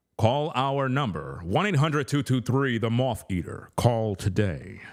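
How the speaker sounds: movie announcer voiceover voice. Showing off voiceover skills for movie companies: movie voiceover voice. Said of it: "you want voiceovers".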